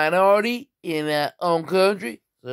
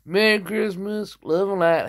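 Merry Christmas pitched up; retake, higher; 4 semitones higher than usual. Shown as a demonstration. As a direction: say it again, lifted and fresher. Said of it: "Take two".

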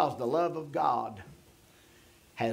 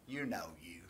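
whisper; 7 semitones lower, 11 dB quieter than usual. Acted. Intimate aside to congregation.

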